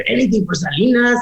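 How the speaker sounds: imitated lowrider saying "Salinas" with an added final s; mispronounced name. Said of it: "not even saying her name right".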